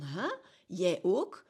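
loud, incredulous "Huh? Jij ook?" imitating the friend; very surprised. Friend hearing she also sees a relationship therapist, amazed and loud. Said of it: "En hij zegt dat zo heel verbaasd".

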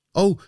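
short, high "oh" cried out; narrated exclamation of alarm; startled cry. A narrator's reading. Fisherman seeing the skeleton on his kayak, startled cry. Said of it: "riep de man".

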